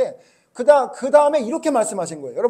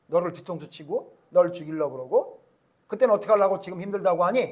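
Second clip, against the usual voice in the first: stern rebuke; 3 dB louder than usual. Acted. God's stern rebuke voiced.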